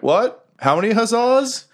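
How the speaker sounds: bewildered crew calling out; half-laughing guards calling through the fog; confused guards. Acted. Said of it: "you kinda hear people like".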